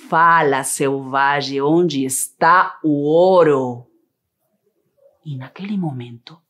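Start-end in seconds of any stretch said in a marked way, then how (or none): 0.1-3.9 demanding captain. Acted.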